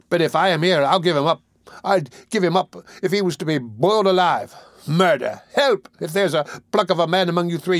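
put-on high-pitched, agitated boy's outcry; increasingly excited cries. A narrator's reading. Boy denouncing the murderer to three men, excited cries. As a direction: work yourself up, crying out high. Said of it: "becoming more and more excited as he spoke".

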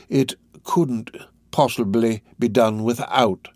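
slow, deliberate refusal to budge; decided. Acted. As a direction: state it with measured finality. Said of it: "in a most decided manner".

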